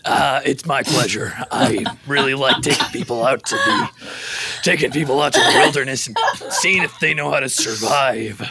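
low American accent, lightly put on; Bear Grylls, American accent. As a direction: play a survival host with an American accent. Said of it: "you're trying the American accent today?".

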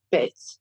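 low "Bitch" with a lisped s ending; gap-toothed child. Retold or imitated. Mom imitating her daughter's one allowed swear, lisped. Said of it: "she's just lost her upper tooth".

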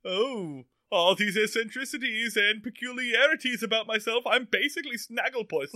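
a hint of campy Snagglepuss; Snagglepuss-style villain. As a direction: lightly play a flouncy cartoon lion villain. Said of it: "a Snagglepuss mixed with your Vincent Price".

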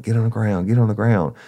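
sharp high shouted order to get down; police command shout. Retold or imitated. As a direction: bark it like a cop with gun drawn. Cop rushing suspects, pistol drawn.

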